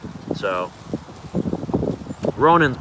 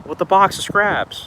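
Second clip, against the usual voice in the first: high, very drawn-out villain line; Obadiah Stane; 6 semitones higher, slower than usual. Finishing the villain's quote after a pause, mock outburst. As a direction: land each word slowly, pitched up. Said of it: "Oh no, he says".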